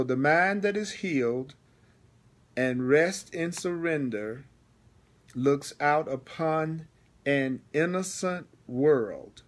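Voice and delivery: measured, deliberate reading; slow reading. Shown as a demonstration. Teacher rereading the paragraph to students, slowly. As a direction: read slowly, pausing after each phrase. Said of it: "Notice I'm reading slowly".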